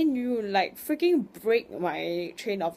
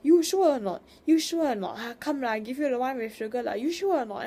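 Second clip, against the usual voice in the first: much higher, louder nagging mom; imitating insistent mom; 6 semitones higher, 4 dB louder than usual. Mom pushing sugar on the aunt, high, loud and insistent. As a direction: badger her like an insistent Singaporean mother. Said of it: "my mom went, like, three times".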